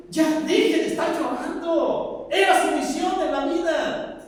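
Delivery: a preacher half-shouting at the grieving; scolding mourners. Acted. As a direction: tell them firmly to stop crying.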